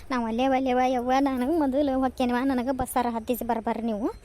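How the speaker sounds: loud, pleading refusal; insistent protest. Acted. Daughter-in-law demands the bus at once, protesting insistently. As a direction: refuse to be put off, loudly.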